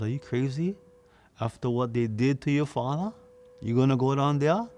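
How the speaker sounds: a mother horrified at her son's idea; are you crazy, climbing to a near shout; alarmed scolding. Acted.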